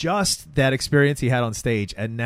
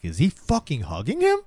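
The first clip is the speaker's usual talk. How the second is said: builds from plain to a high, loud laughing cry; rising astonishment, breaking into laughter; incredulous watcher cracking up; shocked disbelief; 6 semitones higher, 3 dB louder than usual. Retold or imitated.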